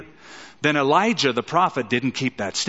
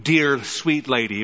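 tender respect. Shown as a demonstration. Preacher showing the respectful sense of lady, tender and gentle. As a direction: say it as a respectful endearment.

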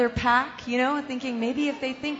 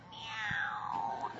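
soft whispered meow; cat meow; 2 semitones lower, 11 dB quieter than usual. Shown as a demonstration. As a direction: whisper a cat's meow to coax it. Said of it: "So, uh, this is all I got".

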